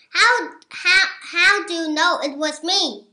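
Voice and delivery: turkey howling in despair. A narrator's reading. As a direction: howl the question. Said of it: "howled Turkey".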